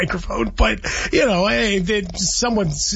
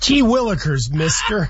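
put-on higher, gee-whiz kid voice; wholesome 1950s kid; 3 semitones higher than usual. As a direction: say it like a cartoon kid. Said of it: "similar terms are".

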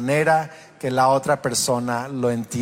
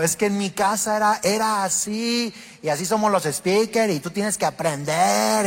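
mock stubborn excuse; 4 semitones higher than usual. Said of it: "yo le decía".

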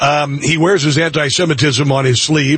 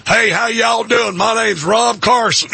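hammed-up Southern "y'all" greeting, a bit slower; mock Southern accent; 5 semitones higher than usual. Host mocking faking an accent back home, hammed-up Southern twang. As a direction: fake a folksy Southern twang as a joke. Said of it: "my hometown and going".

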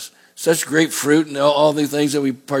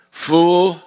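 "Fool" called sharp and raised; stern rebuke; 2 semitones higher than usual. Acted. God rebuking the rich man, raised.

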